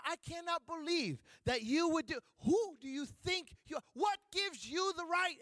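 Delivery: high, shouted mock outrage; a hammed-up furious mover, pitched high and shouted; mock angry yell. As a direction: parody the mover's yelling, way up high. Mimicking the mover's outrage again.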